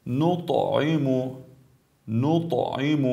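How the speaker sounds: recited نطعم with a short echo on ط; brief qalqala. Shown as a demonstration. Tajweed teacher models second ط word, bouncing ط in نطعم.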